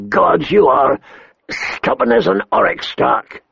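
high, scornful royal exasperation; exasperated king. A narrator's reading. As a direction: throw up your hands at him.

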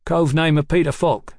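muffled. A narrator's reading. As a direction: report it through a kerchief, still loud. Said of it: "his voice muffled".

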